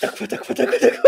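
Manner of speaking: pleading. Acted. Player pleads laughing.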